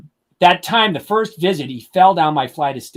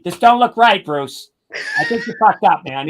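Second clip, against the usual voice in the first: higher and louder, badgering the driver; a hammed-up scolding from the passenger seat; mock yell; 6 semitones higher, 4 dB louder than usual. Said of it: "yelling at me".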